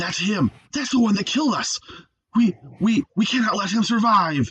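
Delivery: intense, fierce, ferocious yell, pitched high. Voicing trickster gods who spot their killer: yelling with intense ferocity. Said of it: "you hear them yell".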